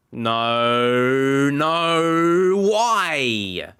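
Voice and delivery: anguished protest. Real, not acted. Watching a goal conceded.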